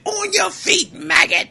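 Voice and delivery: high, loud barked order; drill sergeant shout. Retold or imitated. Sergeant rousing a soldier back into action, barked shout. Sergeant wakes him after reset.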